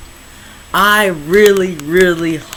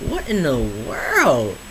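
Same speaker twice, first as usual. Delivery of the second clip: slow disbelief; 4 semitones lower, 4 dB quieter, much slower than usual. Real, not acted. Reacting to Capitol riot.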